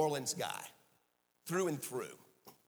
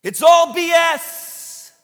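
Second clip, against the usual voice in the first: much higher, much louder, slow and forceful; emphatic proclamation; 8 semitones higher, 12 dB louder, slower than usual. Retold or imitated. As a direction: proclaim it like a revelation. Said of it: "Didn't use the initials. He said it".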